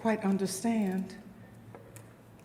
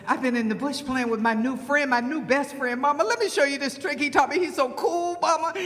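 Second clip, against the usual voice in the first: put-on excited child snake; 3 semitones higher, faster than usual. Snake child gushes about friend.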